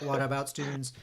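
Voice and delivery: flat computer text-to-speech voice; robot voice. Pretend. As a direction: read it like a talking computer. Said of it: "like the robot voice".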